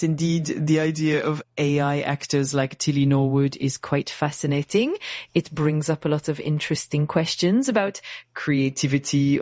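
hammy fake French accent in English; bad French accent. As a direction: lay the French accent on thick and badly. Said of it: "using a really bad fake French accent".

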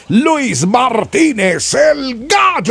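long drawn-out name call; announcer introduction. Real, not acted. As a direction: stretch every syllable to a climax. Co-host announces host's name. (presentación de locutor, muy alargada)

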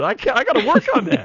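high, quick put-on Cockney accent; playful mock Cockney accent. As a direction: clip it out in a hammed-up Cockney accent. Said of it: "you're leaning Cockney".

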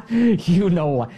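"You know why" said through a laugh; half-laughing knowing aside. Real, not acted. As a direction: chuckle it out knowingly.

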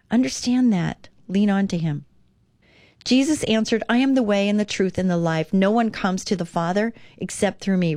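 calm devotional read-aloud. Acted. Reads scripture verses.

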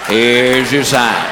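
low, slow deadpan; slow low deadpan tag line; catchphrase punchline. Acted. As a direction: draw it out low and dry.

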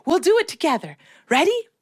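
gently upbeat teacher voice; reassuring teacher. Retold or imitated. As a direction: coax a scared child to join in. Teacher reassures frightened child.

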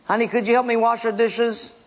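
a wife asking nicely for help; mock sweet wife. Wife sweetly asking husband for help with dishes.

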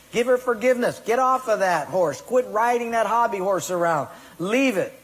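God laying down the law to a stubborn believer, firm; God commanding. Acted. God voiced giving a command.

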